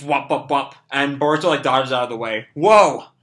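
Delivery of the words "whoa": startled yelp. Acted. Boruto dodging bullets.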